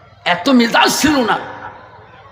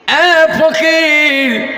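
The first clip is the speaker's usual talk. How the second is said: high, very drawn-out hail; retold summoning call; 8 semitones higher, much slower than usual. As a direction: summon the beggar in a long high cry. Caliph calls the beggar.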